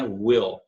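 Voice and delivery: "will" ending in a dark, back-of-throat L. Shown as a demonstration. Teacher showing learners the dark L in "will", made far back. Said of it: "aquele dark L lá".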